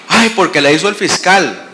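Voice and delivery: mock-aggrieved answer; mock complaint. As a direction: parody a fussy protest with an exclaimed start. Mocking lawyers' usual complaint.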